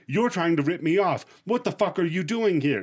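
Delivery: a touch of furious accusation, retold; hammed-up angry homeowner; mock livid customer.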